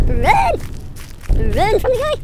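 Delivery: scared gamer shouting at the screen; panicked yelling. Real, not acted. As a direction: yell it while running for your life. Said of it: "Girly screams".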